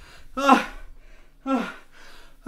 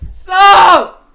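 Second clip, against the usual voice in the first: shouted protest; shouting; 6 dB louder than usual. Real, not acted. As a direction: yell it out. Streamer reacting to donations.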